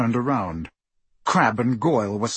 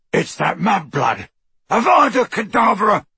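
shouted curse; 7 semitones higher, 5 dB louder than usual. A narrator's reading. Crabbe casts killing curse.

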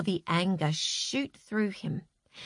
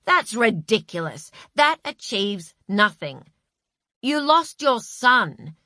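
pompous schoolteacher; 4 dB louder than usual. Acted. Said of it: "pompous schoolteacher voice".

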